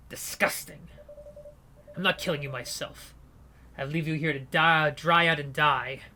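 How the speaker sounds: mock the dying man with disdain; contemptuous gang leader. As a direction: leader leaving the narrator to die.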